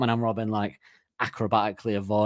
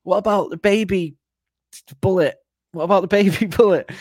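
high wife voice; 9 semitones higher, 6 dB louder than usual. Retold or imitated. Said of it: "He goes".

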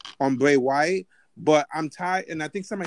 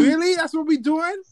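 indignant yell; 8 semitones higher than usual. Real, not acted. Indignant defense of Jinder Mahal.

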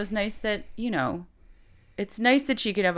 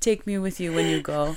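laughing. Retold or imitated. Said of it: "And he goes".

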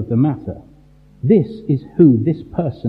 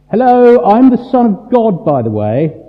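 mock casual Jesus; 6 semitones higher, 5 dB louder than usual. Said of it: "not Jesus telling everyone".

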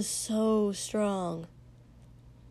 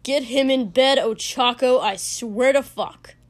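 screeching; 2 semitones higher, 7 dB louder than usual. A narrator's reading. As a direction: screech the order across the crowd. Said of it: "he pointed at Shoto and screeched".

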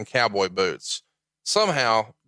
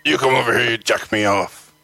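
Barbarian impression. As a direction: do the Barbarian calling Tommy over. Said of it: "That's my Barbarian impression".

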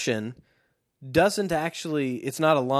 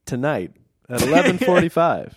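dramatic announcer; 7 dB louder than usual. Pretend.

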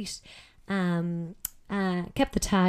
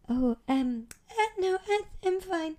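high, hesitant stammer; imitating her nervous stammer; flustered denial; 11 semitones higher than usual. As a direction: insist you're fine while clearly rattled. Flustered reply to leering interviewer.

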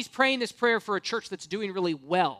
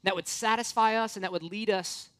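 prayer. Acted. Leads the congregation in prayer.

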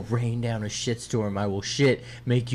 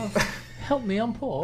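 high, pleading poor Brit; British accent; 10 semitones higher, 5 dB quieter than usual. Pretend. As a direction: beg like a Victorian pauper. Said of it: "No, not the, that's, like, eighteen hundreds British".

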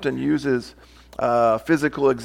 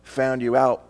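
a mild accusing gotcha; understated condemning voice; 2 semitones lower, slower than usual. Retold or imitated. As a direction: catch her out, lightly mocking. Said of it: "Almost sounds like a voice of condemnation".

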